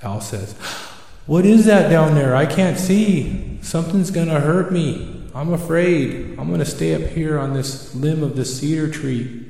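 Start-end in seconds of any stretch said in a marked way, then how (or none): 1.3-9.4 high, anxious owl voice, loud at the start; frightened owl. Acted. Owl hearing a rustle below at night, afraid. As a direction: start in alarm, then settle a little. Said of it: "The owl gets afraid".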